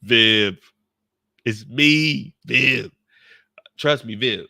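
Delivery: loud, urgent insistence; urgent loud plea to Aunt Viv; loud pleading. Retold or imitated. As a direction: press her hard and loud.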